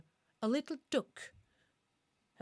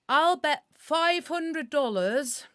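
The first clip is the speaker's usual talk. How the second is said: slow, loud, higher mock American accent shouting the bet; bad American accent; 7 semitones higher, 7 dB louder, much slower than usual. Tourist shouting his bet across a Dublin pub, in a poor American accent. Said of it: "That's not a very good American accent".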